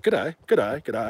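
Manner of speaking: lightly imitated Australian greetings; repeated Aussie hellos to every passerby; playful Australian accent; Crocodile Dundee. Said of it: "Crocodile Dundee".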